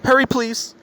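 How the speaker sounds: imitated high-pitched urgent plea; scared. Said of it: "And she got scared".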